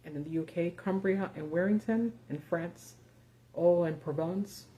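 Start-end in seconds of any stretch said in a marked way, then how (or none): 3.5-4.6 slow attempt at a French accent; best French accent. Shown as a demonstration. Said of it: "that's my best French accent".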